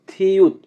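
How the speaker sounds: থিউত high, with aspirated th; pronunciation demo. Shown as a demonstration. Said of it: "থিউতের উচ্চারণ হবে থ". (থিউত উঁচু স্বরে স্পষ্ট উচ্চারণ)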